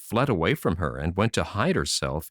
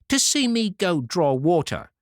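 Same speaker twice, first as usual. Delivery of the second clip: high, sneering voice; mock the idea with disdain; scornful minx; 9 semitones higher than usual. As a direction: rude daughter scoffing at her mother. Ill-bred daughter sneers.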